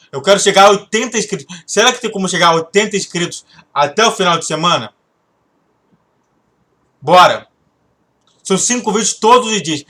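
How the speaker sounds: talking through a sore throat. Real, not acted. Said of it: "eu tô com dor de garganta". (voz com dor de garganta)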